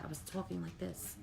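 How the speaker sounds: very soft, hushed demo voice; barely audible. Shown as a demonstration. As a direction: show how little voice you had, almost nothing. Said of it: "I couldn't speak very loud".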